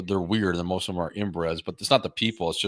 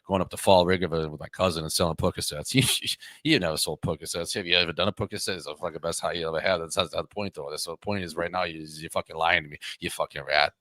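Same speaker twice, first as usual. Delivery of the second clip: Boston tough guy. Retold or imitated. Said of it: "you should do an hour of Boston guy like that".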